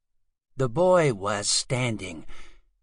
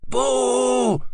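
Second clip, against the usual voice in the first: sudden high, loud boo; spooky boo; 11 semitones higher, 6 dB louder than usual. Acted. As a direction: jump out and shout boo. Scary monster jumps out.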